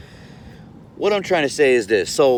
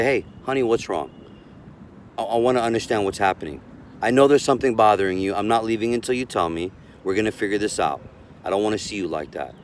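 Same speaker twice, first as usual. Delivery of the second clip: soothing partner talk; 2 semitones lower, faster than usual. Shown as a demonstration. Calm man soothing his angry partner, gently reassuring. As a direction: coax her like a calm babysitter. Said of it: "you're gonna have to talk like that".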